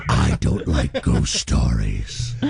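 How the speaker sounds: very low, slow spooky narrator; Ghost Stories voice. Retold or imitated. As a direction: creep it out like a haunted house host. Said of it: "He said it in the Ghost Stories voice?".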